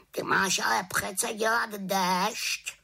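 high, reproachful raven voice. A narrator's reading. Raven scolding the little witch over her rain, high reproachful croak. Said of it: "krákal vyčítavě".

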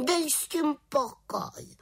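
high, slow sulky retort; grumpy. Acted. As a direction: tell him off, irritated. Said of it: "vykřikla mrzutě". (mrzutě, ať dá pokoj)

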